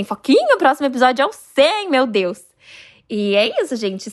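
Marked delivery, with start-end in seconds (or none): 0.0-2.4 high-pitched excited call to Foquinha; excited squeal. Retold or imitated. Telling Foquinha the next episode is the hundredth, excited squeal. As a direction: squeal her name with glee. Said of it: "eu falei assim".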